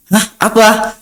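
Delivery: high, baffled what; teacher baffled by the strange Arabic, asking what; puzzled hah. Retold or imitated. Baffled teacher asking his student, high surprised hah.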